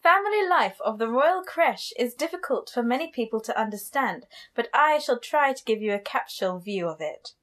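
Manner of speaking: hammed-up posh narration; posh woman. Podcast host performing the chapter quote, mock-posh woman. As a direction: read it like a posh lady, rising and falling. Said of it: "reading it as a posh woman".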